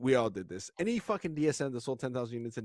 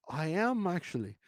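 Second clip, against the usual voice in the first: put-on Australian accent; 5 semitones higher than usual. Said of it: "I can't do the accent".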